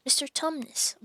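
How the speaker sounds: a child calling out, mildly hammed; mild bawl. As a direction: shake him awake with your voice. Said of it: "bawled Lucy in his ear".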